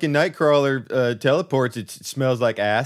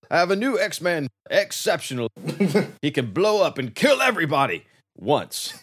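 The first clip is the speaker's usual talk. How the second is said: mock-proud professor, slightly raised; 2 semitones higher than usual. Professor X introduces new X-Man, mock-proud announcement. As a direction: present a prize recruit grandly. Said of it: "Professor X is just like".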